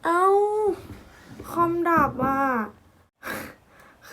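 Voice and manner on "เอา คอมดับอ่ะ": high, loud alarmed outburst; blurting out in panic as the laptop dies; startled shout. Real, not acted. Vlogger yelling when her computer suddenly dies, panicked.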